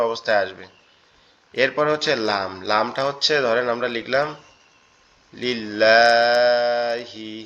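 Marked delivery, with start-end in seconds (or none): 5.4-7.3 লিল্লাহি drawn out very slowly with a held double l; লিল্লাহি spoken slowly as Quranic Arabic, the double l held; slow drawn-out Arabic reading. Shown as a demonstration. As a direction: recite লিল্লাহি syllable by syllable, very slow. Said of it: "এই লাম লাম জের আমরা যদি এইভাবে লিখি".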